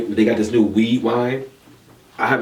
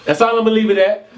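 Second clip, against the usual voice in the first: laughing; 12 semitones higher, 7 dB louder, faster than usual. Real, not acted. Laughs off getting caught out.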